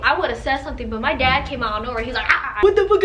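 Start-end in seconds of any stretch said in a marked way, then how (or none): 2.3-3.0 high, loud mock yell; comic re-enacted shouting, laughing; dad's outburst. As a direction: imitate an outraged dad bursting in. Imitating dad's outburst at the man.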